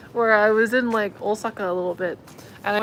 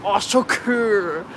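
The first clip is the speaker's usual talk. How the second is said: mock excited shoppers; much slower than usual. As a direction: ham up two guys showing off their English. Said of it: "they were saying stuff like".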